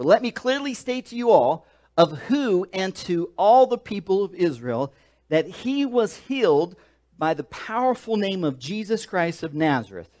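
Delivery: Peter boldly declaring to the council; bold declaration. Shown as a demonstration. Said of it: "let me start that over".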